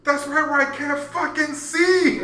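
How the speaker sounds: high, slow Australian yell; Nick's heavy Australian accent. Retold or imitated. Half-blind teammate explaining a missed catch, yelled Australian accent. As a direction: holler it in a broad Aussie accent, stretched out. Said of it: "he's got this heavy Australian accent".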